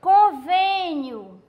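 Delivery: Convênio said very slowly, with a closed ê; slow, careful Convênio; closed vowel demo. Shown as a demonstration. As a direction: stretch out Convênio for the class. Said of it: "o V é um som fechado".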